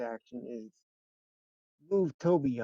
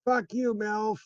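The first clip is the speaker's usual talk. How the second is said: angry curse; 9 semitones higher, 4 dB louder than usual. Acted. Character curses while fleeing.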